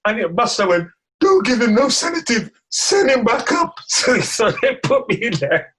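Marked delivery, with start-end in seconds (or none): 1.2-3.7 hammed-up bossy call, pitched up; retold called-out order. Buster's order to the nurse, retold.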